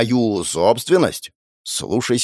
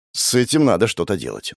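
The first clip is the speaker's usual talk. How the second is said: plain reading voice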